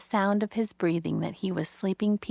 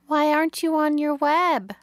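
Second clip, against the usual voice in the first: high, louder worried little pig voice; anxious young pig; 8 semitones higher, 6 dB louder than usual. A narrator's reading. Wilbur calls into the dark for Charlotte, worried and high. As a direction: call out into the dark like a lost piglet.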